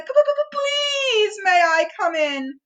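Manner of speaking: high, shaky stuttered plea; stammering Piglet. A narrator's reading. Piglet pleading with Owl at the window, high stammer. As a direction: plead timidly.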